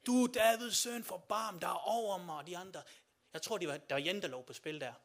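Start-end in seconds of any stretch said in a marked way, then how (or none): 0.0-2.4 a blind beggar's raised plea; pleading call for mercy. Retold or imitated. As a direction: call out to the passing Jesus, louder. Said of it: "han siger".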